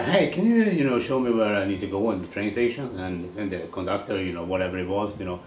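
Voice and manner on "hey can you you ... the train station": lightly voiced polite tourist; asking directions. Swede asking a Scottish conductor for directions, politely. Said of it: "I asked the que".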